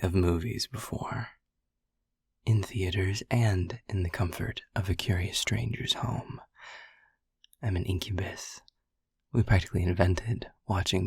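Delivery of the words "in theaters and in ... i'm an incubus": flirty whisper. Acted. Incubus teasing the listener about movies, whispered. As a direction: breathe it close into the ear.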